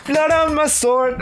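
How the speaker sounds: squeaky high-pitched disbelief; a laughing falsetto echo; high mock gasp. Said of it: "The blood is on your sword".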